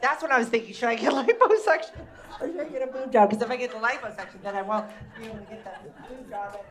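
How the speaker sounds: put-on fast, loud gushing teen chatter; rambling teenage girl. Teenage girl rambling to Cindy about the mall, loud and fast. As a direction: keep the gossip pouring out without pause.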